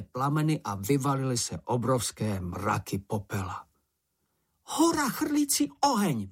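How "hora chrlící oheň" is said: much higher, startled little creature voice; high little creature crying out in fright; Sniff's shocked cry. A narrator's reading. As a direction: blurt it out in alarm as small Sniff. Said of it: "vykřikl Čenich".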